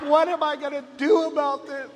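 a hint of a little girl copying her sister; fretting little girl. Toddler mimicking sister's worry.

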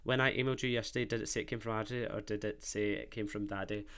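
quick, low read-back of a message. Real, not acted. Host checking the sent text, quick read-back. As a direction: rattle it off under the level of chat.

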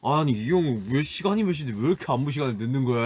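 grumbling to oneself about someone late; a touch of huffy complaining, acted out; mild retold grumble. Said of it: "심통 나 있었는데". (살짝 심통 난 투덜거림 재연)

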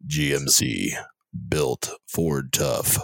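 low, slow, menacing announcer; calm psychopath. Acted. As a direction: read the slogan like a calm killer. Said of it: "my serial killer voice".

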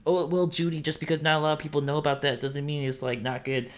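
high put-on objecting listener voice; mock know-it-all listener. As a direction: play a smug listener, quick and pushy. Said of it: "be like".

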